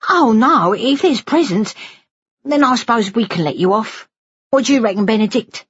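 high-pitched playful relenting; joking student nurse with a lifted voice; teasing Dora. Acted.

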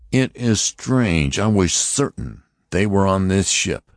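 high, stern voice of an alien officer; Martian officer. Acted. Martian officer warning the passengers, stern and high. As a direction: announce it like a cold interrogator. Lighter muses aloud.

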